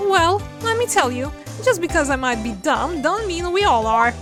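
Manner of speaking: a touch of Southern twang; Southern woman voice. Acted. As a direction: play a sassy country gal. Indignant Southern character.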